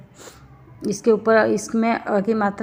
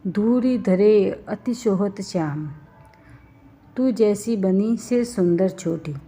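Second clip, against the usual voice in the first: slow verse recitation; slower than usual. Shown as a demonstration. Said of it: "ये लघु पढ़े जाएंगे".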